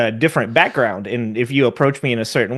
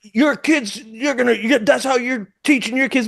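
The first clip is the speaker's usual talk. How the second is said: mock scolding stranger; 9 semitones higher than usual. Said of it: "and the guy".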